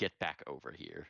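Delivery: deep, commanding, magically enhanced voice. A character casting thaumaturgy to make the voice boom, booming voice. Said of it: "make my voice boom".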